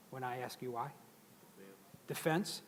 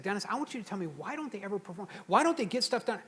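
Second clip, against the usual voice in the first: mildly mad boss; 4 semitones higher, faster than usual. Retold or imitated. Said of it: "he was mad".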